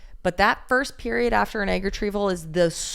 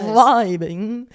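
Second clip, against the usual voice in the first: louder drawn-out vibing; stretched vibing; 3 semitones higher, 6 dB louder than usual. Shown as a demonstration. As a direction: stretch the word out loud. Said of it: "slow-mo and fast-mo".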